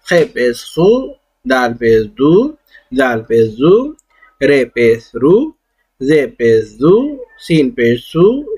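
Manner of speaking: careful recitation, letter name then پیش then the syllable ending in u, like او, بو, تو; drilling pesh sounds. Shown as a demonstration. Teacher drills the class through every letter with pesh, carefully. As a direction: pronounce each letter with پیش clearly, rounding to the oo sound. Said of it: "جو کہ واو کی آواز دیتا ہے".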